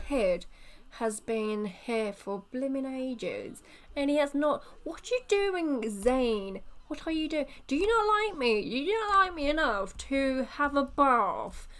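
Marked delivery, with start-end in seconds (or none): 4.8-10.8 mock hurt wife. Player voices sim wife's complaint.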